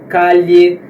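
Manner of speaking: calle with a Portuguese lh sound. Shown as a demonstration. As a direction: say calle like ca-lhe. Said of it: "Alguns países pronunciam". (calle com som de LH)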